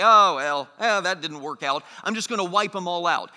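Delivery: offhand mock shrug in the voice; flippant. Preacher mimics a careless God shrugging off a decision, flippant. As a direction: toss it off as no big deal. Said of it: "this isn't a flippant decision".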